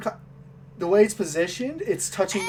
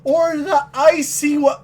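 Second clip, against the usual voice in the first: slow mocking shopkeeper; 7 semitones higher, 4 dB louder than usual. Shopkeeper offers bows.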